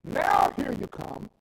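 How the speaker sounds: loud, slow, drawn-out shout. Acted. Preacher confronts the sinner, slow loud shout. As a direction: call him out slow and loud.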